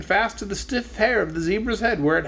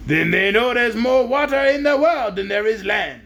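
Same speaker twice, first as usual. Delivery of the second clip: shrill petulant; 5 semitones higher, 3 dB louder than usual. Acted. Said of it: "in a shrill, petulant voice".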